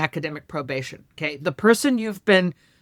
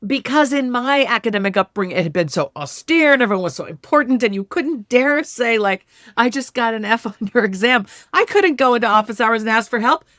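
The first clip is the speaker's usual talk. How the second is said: higher, louder, impassioned; emotional recollection; 6 semitones higher, 5 dB louder than usual. Real, not acted. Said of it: "I'm getting emotional just saying this".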